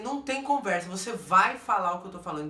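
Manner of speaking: loud, no-argument order; retold angry insistence; very worked up. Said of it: "porque eu tô muito nervosa".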